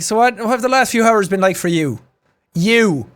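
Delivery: lightly imitated, lessened Dublin accent; a softened hint of Dublin accent. Streamer imitating the interview's presenter, Dublin accent. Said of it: "the presenter is from Dublin".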